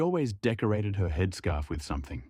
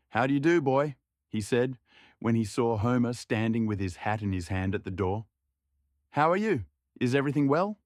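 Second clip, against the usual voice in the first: farmer's greeting; 3 semitones higher than usual. Acted.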